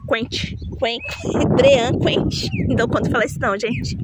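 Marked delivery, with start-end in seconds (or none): 0.1-2.5 stumbling over "Quent", then "Brean Quent" with a laugh; struggling pronunciation. Shown as a demonstration. Gardener fumbling an English plant name, laughing. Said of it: "do nome difícil que eu não sei pronunciar".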